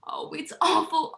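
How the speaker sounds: hushed, breathless despair; despairing whisper. Acted. Young sister whispering her despair about her brother. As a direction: let it slip out in a whisper.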